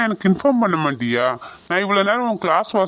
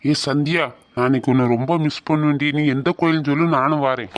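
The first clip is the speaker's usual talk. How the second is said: put-on lower, fond boyfriend pleading on the phone; 6 semitones lower than usual. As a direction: drop the voice low and sweet, like a boy missing her.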